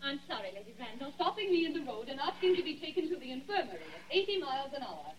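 distant voice. Acted. Recalled voice from outside.

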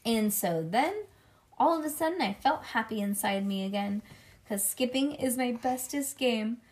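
put-on lively read-aloud as a little kid narrator; chatty kindergartner storytelling; children's story narration. A narrator's reading. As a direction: read it to a child with bouncy emphasis.

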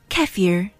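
"kefir" as KEF-eer, short e stressed; Russian pronunciation. Shown as a demonstration. Teacher listing variants, third "kefir" as KEF-eer. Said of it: "however you pronounce it".

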